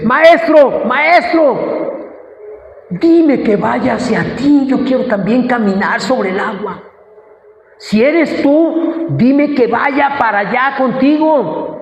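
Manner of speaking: high, drawn-out call across distance; eager calling out. Acted. Peter calling to his Master on the water, eager calling out. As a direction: plead eagerly to be allowed over.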